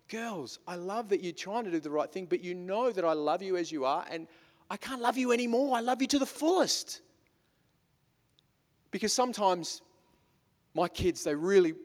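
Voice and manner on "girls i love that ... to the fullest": tender to daughters. Retold or imitated. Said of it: "And I tell them".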